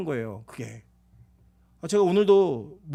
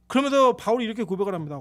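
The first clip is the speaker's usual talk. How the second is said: usual speaking voice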